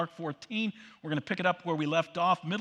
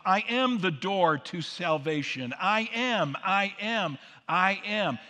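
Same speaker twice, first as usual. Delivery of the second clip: loud proclaiming; 5 dB louder than usual. Acted. Jesus's I am claims proclaimed.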